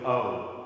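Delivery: "o" gliding from oh to oo; English-style gliding "o"; diphthong O. Shown as a demonstration. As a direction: let the "o" slide into a second vowel. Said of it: "they don't do diphthongs".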